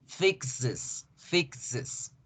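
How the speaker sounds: fixes said softly, final es as is; softly modeled word. Shown as a demonstration. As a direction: model fixes quietly for the class. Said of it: "se debe pronunciar is". (fixes dicho suave, con terminación is)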